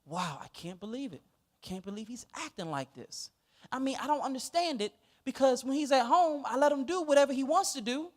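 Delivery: innocent, baffled mom talking to the teachers; quoting the mother. Retold or imitated. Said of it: "and I quote".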